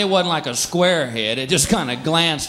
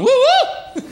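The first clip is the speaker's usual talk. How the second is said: mild mock "woo, woo" to scare snakes; light hollering at the grass; mock hooting; 5 dB louder than usual. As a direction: hoot to shoo off snakes.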